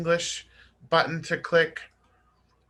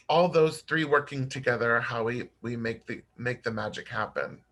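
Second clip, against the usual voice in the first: raspy voice; 3 semitones lower than usual. Real, not acted. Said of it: "Sorry for my raspy voice".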